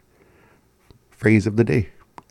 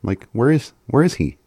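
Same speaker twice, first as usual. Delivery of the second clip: imitating the speaker; 4 semitones higher than usual. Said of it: "She's like".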